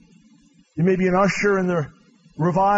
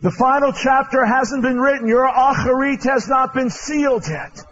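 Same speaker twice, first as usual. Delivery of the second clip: a hint of Charles Finney crying out to the weeping crowd, louder; Finney pleading with a weeping crowd, mildly raised; Finney preaching; 6 semitones higher, 3 dB louder than usual. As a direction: declare hope like the old revivalist. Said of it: "he said".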